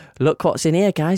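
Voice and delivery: ordinary delivery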